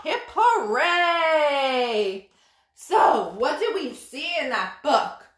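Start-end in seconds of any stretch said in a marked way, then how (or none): 0.0-2.3 cheer. Acted. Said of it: "cheers end of story".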